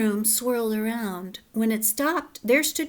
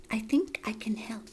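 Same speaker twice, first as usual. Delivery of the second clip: gentle whisper; 4 dB quieter than usual. Acted. Kind old woman offering help.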